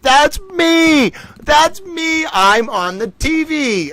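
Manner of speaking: very high, excited little dog voice; squeaky happy puppy voice; cartoon dog. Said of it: "he's running around in circles right now like".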